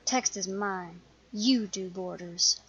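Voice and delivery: slow emphatic "You do borders"; firmly dividing the job; firm and possessive. Acted. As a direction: lay claim with no debate. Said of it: "He has surprisingly strong feelings on the topic".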